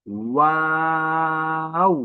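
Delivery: ওয়াও with a w from rounded lips and a long held aa; rounded lips, drawn out. Shown as a demonstration. Teacher models the letter's name, lips rounded. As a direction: hold ওয়াও long and steady, closing on oo. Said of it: "দুই ঠোঁট গোল করে".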